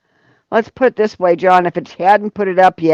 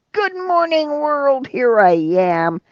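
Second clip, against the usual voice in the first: cheerful wake-up; 8 semitones higher, slower than usual. Pretend. Voicing a cheerful wake-up greeting.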